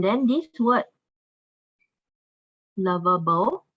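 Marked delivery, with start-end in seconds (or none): 2.8-3.7 "lovable" modelled as "LUV-uh-bul"; teacher's careful model of "lovable", set apart on its own; pronunciation demo. Shown as a demonstration. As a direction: show learners "lovable" in three syllables. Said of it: "so it's pronounced as lovable".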